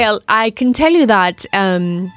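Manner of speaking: lightly put-on British accent; chatty, genteel British accent. Shown as a demonstration. Guest showing off a British accent for the host, British accent. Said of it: "just talk like that for a second".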